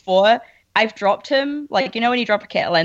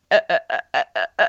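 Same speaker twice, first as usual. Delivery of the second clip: koala mating call; 9 semitones lower, much faster than usual. Retold or imitated. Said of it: "It just goes, goes".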